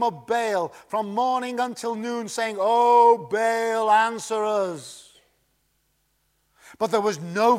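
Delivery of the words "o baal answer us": pleading call. Acted. Prophets calling on Baal.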